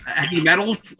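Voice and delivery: "heavy metals" with a hissed plural S on "metals"; extra S on metals. Real, not acted. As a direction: say "heavy metals", adding a sibilant S to "metals". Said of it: "Don't say, don't say heavy metals".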